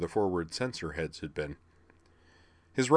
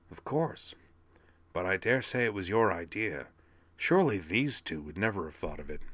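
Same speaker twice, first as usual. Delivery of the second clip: smug villain voice. Acted. Starscream voiced with smug disdain.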